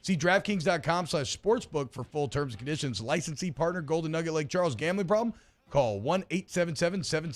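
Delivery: fast, even small-print read; quick end-of-ad disclaimer. Acted. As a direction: rattle through the legal terms. Reads the ad's legal disclaimer.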